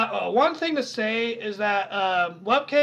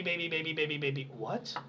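quiet; 7 semitones lower, 11 dB quieter than usual. Real, not acted. Echoes title, confused.

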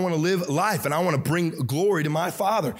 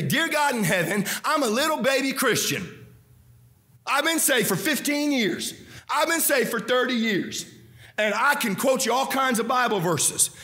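mock prayer of weak faith; 5 semitones higher than usual.

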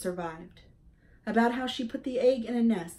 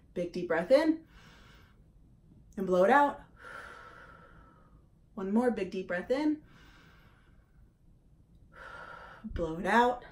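calm breathing guide. Shown as a demonstration. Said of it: "take a big deep breath together".

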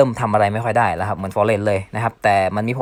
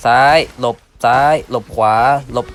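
punchy called-out directions, left, dodge, right; louder dodge calls; 5 dB louder than usual. Real, not acted. Gamer calling his dodges to viewers, louder. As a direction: call each dodge out loud as you play.

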